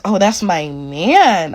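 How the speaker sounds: drawn-out mimicked boast; imitated proud claim. Server claims the man as hers, imitated drawn-out boast. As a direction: stretch it slowly, mimicking the server.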